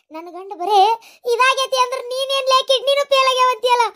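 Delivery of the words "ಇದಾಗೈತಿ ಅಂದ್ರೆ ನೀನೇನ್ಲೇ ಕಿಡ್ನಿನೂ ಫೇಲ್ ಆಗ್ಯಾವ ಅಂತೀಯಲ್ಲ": high, keening wail ending in a sung cry; wailing lament. Acted. Woman laments her husband's illness in a high keening wail. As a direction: lament to God in a sing-song wail. Lamenting over bad report.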